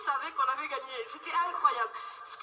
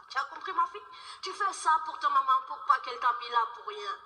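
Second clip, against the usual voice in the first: Senegalese auntie. Retold or imitated. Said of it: "une maman sénégalaise".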